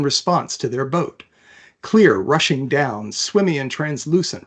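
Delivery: even, measured read-aloud of a novel; story narration. A narrator's reading. Author reading her fantasy chapter aloud, calm narration. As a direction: tell the story steadily to listeners.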